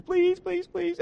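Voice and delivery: hammed-up pleading toddler; mock whiny daughter. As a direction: imitate a child faking tears. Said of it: "she really worked it hard, crocodile tears".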